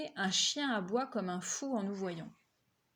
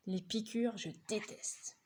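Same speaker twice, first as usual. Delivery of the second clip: shuddering whisper; 5 dB quieter than usual. Real, not acted. Narrator shudders at needles.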